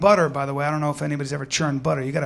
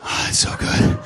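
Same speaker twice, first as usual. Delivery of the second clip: mock ecstasy; slower than usual. Butter bath bliss.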